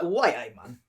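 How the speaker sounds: low-key Geordie exclamation; Geordie accent. Shown as a demonstration. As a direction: demonstrate a Newcastle accent. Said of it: "They'd be like".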